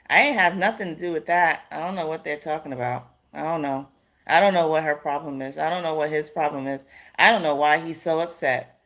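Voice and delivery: quick, offhand denial, imitating someone playing dumb; mock innocence. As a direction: shrug it off fast, as if uninvolved. Mimics abuser feigning innocence.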